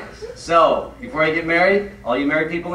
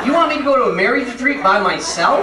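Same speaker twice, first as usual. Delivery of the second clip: disbelieving question, a little higher and laughing; incredulous; 6 semitones higher, 3 dB louder than usual. Retold or imitated. Husband balking at his wife's plan, incredulous. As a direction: push back in amused disbelief.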